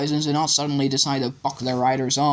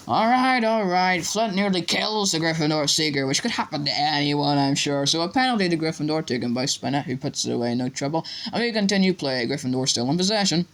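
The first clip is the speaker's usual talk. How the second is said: grudging match commentary; 2 semitones higher than usual. Acted. Commentator rebuked by professor, grudgingly resuming commentary. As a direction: give in, then carry on commentating.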